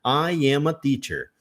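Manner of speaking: slow "I am a teacher"; learner's sentence. Retold or imitated. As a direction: say "I am a teacher" slowly, word by word. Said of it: "Então". (frase do aluno, devagar)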